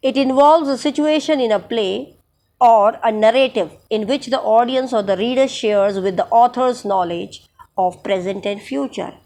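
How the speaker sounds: slow, deliberate dictation of a definition; slow textbook reading. Acted. Teacher reading a definition to her students, slow dictation. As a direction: read each phrase out slowly for students to note.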